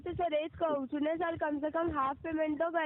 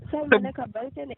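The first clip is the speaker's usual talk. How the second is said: louder, fed up with the lecture; exasperated outburst; 8 dB louder than usual. Real, not acted. Agent snapping back at a customer who keeps lecturing her, louder. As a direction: push back sharply, you've heard enough.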